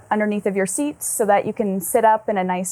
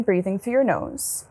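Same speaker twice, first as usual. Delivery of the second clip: guided meditation. Acted. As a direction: gently guide them into their breath, unhurried.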